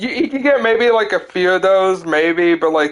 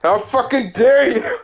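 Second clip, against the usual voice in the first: high-pitched, hammed-up indignation; mock outrage; 6 semitones higher than usual. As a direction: imitate an affronted enemy, half laughing. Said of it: "the other guy's like".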